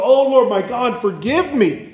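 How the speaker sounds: a light, lifted plea for forgiveness; lightly pleading as a repentant king; mock penitent prayer. Preacher voicing the repentance Asa never gave, lightly pleading. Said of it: "He didn't bow low and go".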